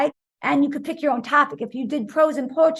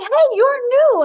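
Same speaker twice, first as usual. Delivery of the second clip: friendly greeting; 13 semitones higher, 8 dB louder, slower than usual. Retold or imitated. Boy greets new girl.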